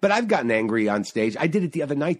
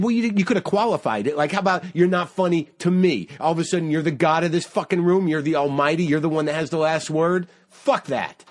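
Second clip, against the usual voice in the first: higher, mildly heated retort; retold indignation; 4 semitones higher than usual. Comic retelling his retort to the old man, indignant. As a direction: argue back at a heckler in the retelling.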